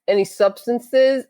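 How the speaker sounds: slow, deliberate interrogation; stern state trooper asking about drugs; slow cop question. Retold or imitated. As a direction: drag it out like a suspicious trooper.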